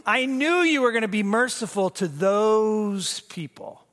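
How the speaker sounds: a touch of petulant anger; I knew stressed, mildly resentful; Jonah's anger. Acted. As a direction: complain like sulking Jonah. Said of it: "And he says to God".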